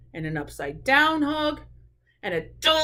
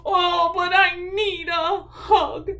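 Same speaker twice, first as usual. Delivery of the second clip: whimpering plea; 5 semitones higher, slower than usual. Acted. Bear whimpers he needs hug.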